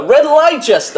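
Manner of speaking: "Red Leicester" said as "Red Lai-shester", high and slow; foreign accent. Shown as a demonstration. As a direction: say "Red Leicester" spelling it out like a foreign learner, "Lai-ches-ter". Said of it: "How would a foreigner say that?".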